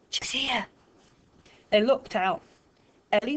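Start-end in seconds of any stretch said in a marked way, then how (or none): 0.1-0.7 breathless whisper, barely voiced; whispered warning. A narrator's reading. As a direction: warn the others without a sound.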